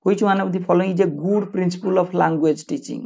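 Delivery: slow, deliberate exam-question reading. Shown as a demonstration. Teacher reading a quiz question to students, slow and deliberate. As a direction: read each word out clearly for the class.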